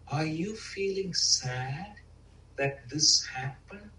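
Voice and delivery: slow, soft and tender question; gentle asking voice. Retold or imitated. Loving parent to the inner child, slow gentle question. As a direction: ask gently, the way you'd coax a child. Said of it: "We gotta really soften the tone".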